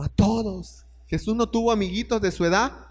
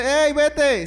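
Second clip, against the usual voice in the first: lightly voiced urgent command, pitched higher; a hint of God hurrying Joseph off; God's command; 5 semitones higher, 4 dB louder than usual. Dios ordena a José irse. (Dios ordena a José que se vaya, voz más aguda)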